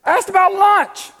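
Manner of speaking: a hammed-up annoyed comeback; mock exasperation. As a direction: play it fed up, lightly. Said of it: "It's like".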